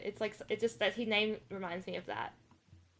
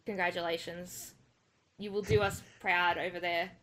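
mock sincere encouragement; congratulating. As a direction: warmly cheer on the player. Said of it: "good words of encouragement for Christopher".

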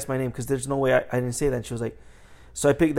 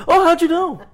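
high, louder fake surprise with a laugh; mock amazement; 14 semitones higher, 5 dB louder than usual. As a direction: play astonished, tongue in cheek. Repeats joke reply to customers.

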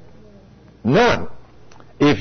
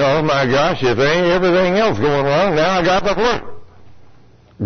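mock grumbling. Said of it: "You think".

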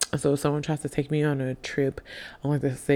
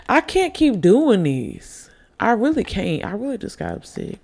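tipsy; 5 semitones higher, 3 dB louder than usual. Real, not acted. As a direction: talk like you've had a few drinks. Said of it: "I know I'm tipsy".

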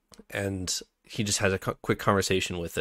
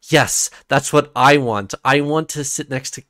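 eager reader; 2 semitones higher, 4 dB louder than usual. Retold or imitated. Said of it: "And as a reader, I'm just like".

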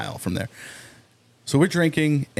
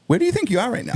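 cop voice; 12 semitones higher, much faster than usual. Retold or imitated. Cop questioning drunk guy.

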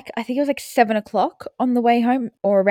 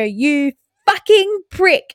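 put-on toddler copying mum; 7 semitones higher, 4 dB louder, much slower than usual. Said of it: "I hear Amara go".

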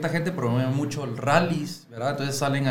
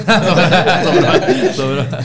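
laughing; 3 semitones higher, 10 dB louder, much slower than usual. Real, not acted. Laughs at own joke.

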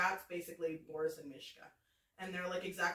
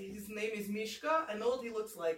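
put-on deadpan comic Russian accent. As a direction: introduce your character in a put-on Russian accent. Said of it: "person that this Russian accent would".

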